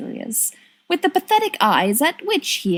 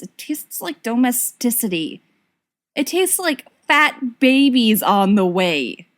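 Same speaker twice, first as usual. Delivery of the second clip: dramatic disdain; 3 semitones higher than usual. Acted. Sirius dramatizing domesticity.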